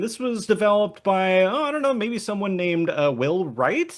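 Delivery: playfully feigned ignorance, pitch rising; mock coy. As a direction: act like you don't know who made it. Coy tease about co-host being developer.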